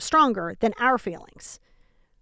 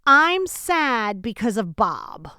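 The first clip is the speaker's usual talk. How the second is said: slow complaint; much slower than usual. Retold or imitated. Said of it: "you don't get to say".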